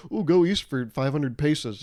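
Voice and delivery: slow, loud, hammed-up old-timey guide; pompous explorer. Comic impersonating an explorer giving directions, hammed-up and slow. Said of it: "I'm doing an impression".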